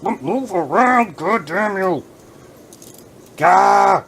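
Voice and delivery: loud, slow exasperated yell; frustrated outburst. Real, not acted. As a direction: snap at the figure.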